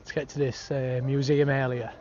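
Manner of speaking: breathless from running; panting after a run; out of breath. Real, not acted. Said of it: "I'm blowing 'cause I've just been running".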